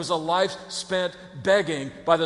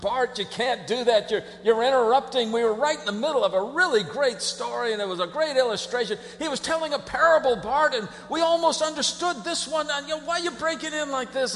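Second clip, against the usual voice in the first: annoyed crowd; 3 semitones higher than usual. Acted. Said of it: "everybody in the crowd said".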